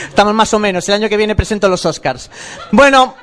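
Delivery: out of breath after singing; panting between phrases; gasping for air. Real, not acted. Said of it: "Déjame coger aire".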